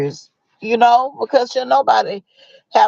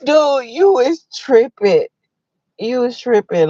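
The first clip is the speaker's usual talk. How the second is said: laughing mock scold; 4 semitones higher than usual. I'm like, mock reply.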